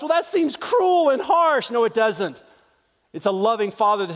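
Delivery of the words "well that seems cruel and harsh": imagined objector. Retold or imitated.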